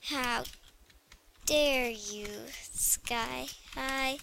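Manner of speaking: half-whispered mock offence; mock offended, muttered. Girl scolding the game under her breath, whispered. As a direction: mutter it to yourself, fading to a whisper. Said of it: "I need to say it actually to the Sky High".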